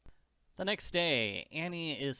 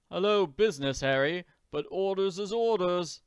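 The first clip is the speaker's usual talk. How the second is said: higher, louder working servant voice; grumbling servant; 5 semitones higher, 4 dB louder than usual. Acted. Servant to fellow servant leaving the room, reluctant. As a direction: play a reluctant servant resigned to orders.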